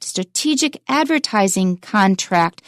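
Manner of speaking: slow, with stress on "strategic" and "advertising"; measured reading stressing "advertising" over "contract"; careful stress demo. Shown as a demonstration. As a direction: lean on "strategic" and "advertising", keep "contract" unstressed. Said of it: "paid attention to the stress".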